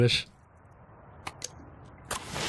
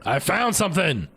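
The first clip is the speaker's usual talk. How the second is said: higher, bright cry of discovery; excited find; 8 semitones higher than usual. Real, not acted. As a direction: shout out the find.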